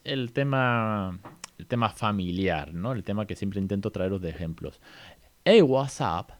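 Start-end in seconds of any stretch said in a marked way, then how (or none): 5.4-6.3 louder, higher, teasing greeting; bright teasing hey to a baby; playful to baby. Shown as a demonstration. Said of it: "Se lo digo al bebé".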